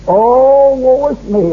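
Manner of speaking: a quick mock lament; mock self-pity. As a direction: play the moaning sufferer lightly. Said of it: "riding old Job's horse".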